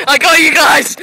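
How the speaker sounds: real laughter breaking through the words; helpless amused laughter; laughing. Real, not acted. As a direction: say it while cracking up. Laughing hard at friends.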